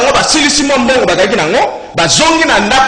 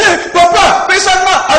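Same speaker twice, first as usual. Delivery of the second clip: lightly voiced child, much higher pitch; imitated pleading child; 11 semitones higher, slower than usual. Preacher voicing child begging papa for something, high imitated plea.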